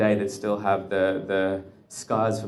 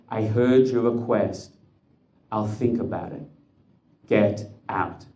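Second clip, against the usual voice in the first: cold slow dismissal; slower than usual. Acted. Officer dismissing the Rebbe's request, slow and cold. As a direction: brush him off slowly and coldly.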